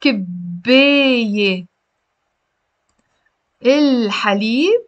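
loud article on both words, split apart; wrong double article. Shown as a demonstration. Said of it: "غلط".

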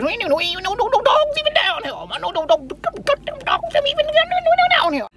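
put-on high, comic old Southern man; old Southern Black man voice. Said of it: "That's my old black man from the South voice".

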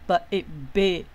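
"b-, it, be": separate sounds slowly joined, then a drawn-out "q"; sounds blended. Shown as a demonstration. Teacher building the next syllables, slow sounding-out of "be" and "q". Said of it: "找前面的".

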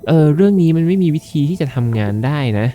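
talking fish character. Acted. Fish telling friends it cannot work, high character voice. Voices the fish's game dialogue.

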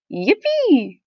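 high drawn-out cheer; cheering yell. A narrator's reading. Friends cheering at making a snow fort, cheering yell. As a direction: give a happy, held-out whoop. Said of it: "everybody yelled".

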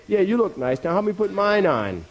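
high-pitched rabbit voice; impatient rabbit. Acted. Rabbit asking the preening dog for help, impatient. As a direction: pitch it up, pressing for a turn.

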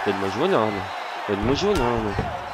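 deep, quiet gloating; lightly deepened smug boast; low mock boast. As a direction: mutter the brag in a deep put-on voice. Low voice after landing knee.

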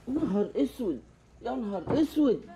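despairing. Acted. Friend despairing to partner about prison, low groan. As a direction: sink into يا نهار اسود in defeat.

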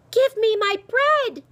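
high, loud, slow demand; drawn-out furious yell; shouted. A narrator's reading. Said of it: "Ellen shouted".

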